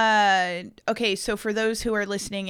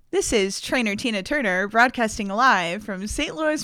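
trainer intro voice; 3 semitones higher than usual. Shown as a demonstration. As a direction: announce yourself like a live broadcast host. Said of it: "Okay, so my introduction".

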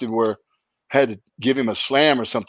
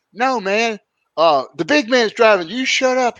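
higher, slower, hammed-up Sheik voice; imitating the Sheik; 10 semitones higher, slower than usual. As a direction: play the stoned Sheik hyping the big man. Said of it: "And the Sheik said".

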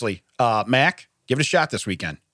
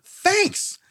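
high, clipped mock thanks; a wary squeak of thanks; mock-suspicious wife saying thanks. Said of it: "And she's like".

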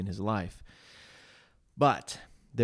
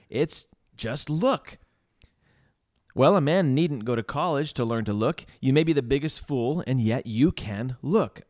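simple lay preacher; 2 semitones higher than usual. Acted. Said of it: "this is how he's smelling it".

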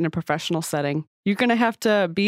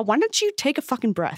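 condescending; 5 semitones higher than usual. Shown as a demonstration. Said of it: "Let's practice saying it".

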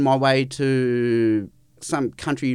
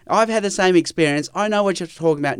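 quick, a bit higher, glib "I know what you're talking about"; mock know-it-all; 5 semitones higher, faster than usual. Guest mocking a listener who claims shared experience, glib and quick. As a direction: rattle it off like someone who assumes they understand. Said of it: "No, I don't know what you're talking about".

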